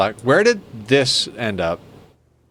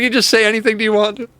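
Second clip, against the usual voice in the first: squeaky quote; 10 semitones higher, faster than usual. Retold or imitated. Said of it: "He's like".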